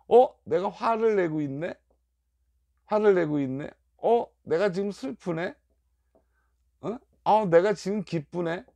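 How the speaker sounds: as if catching yourself mid-feeling, mildly surprised; acted surprised realization. Acting out noticing one's own feelings. (문득 알아차린 듯 살짝 놀란 말투)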